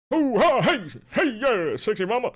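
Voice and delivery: high, lightly voiced hey-mama croon; Johnny Bravo voice. A hint of Johnny Bravo for chat. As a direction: flirt it out like a cartoon hunk. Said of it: "He was based on Elvis?".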